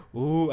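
crowd reacting with an "uh"; imitated crowd "ooh". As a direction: mimic onlookers going "ooh". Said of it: "así se va a escuchar".

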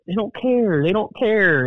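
high, emphatic Jersey voice; Jersey accent. Retold or imitated. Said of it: "in my Jersey accent as much as I could".

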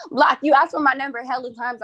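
mocking laugh through the words. Real, not acted. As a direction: laugh as you accuse him. Laughs while accusing.

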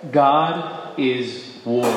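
very slow, weighty, each word set apart; a grave, drawn-out pronouncement; slow solemn priest quote. Retold or imitated. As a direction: intone it slowly like the old Italian priest. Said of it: "and he responded".

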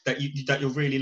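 lightly voiced impersonation, livening as it goes; a hint of a film character's eager pitch; Tony Manero. Podcaster acting out a dressing-room come-on, light impersonation. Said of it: "best Tony Manero impersonation here".

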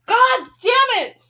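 slow, high, loud swearing; furious curse. Real, not acted. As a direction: drag the curse out in real anger. Reader furious at the book.

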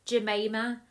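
slow, careful name, each word spelled out; over enunciating. Shown as a demonstration. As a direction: say every name slowly and clearly. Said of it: "That's why I say it slowly".

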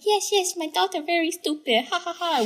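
put-on high-pitched Asian mom accent. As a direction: play the mom with a thick accent. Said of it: "Pretending to be my mom".

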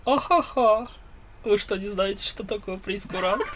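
high, mocking know-it-all voice; snobby waiter. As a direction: play the smug waiter scoffing. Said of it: "Это такой".

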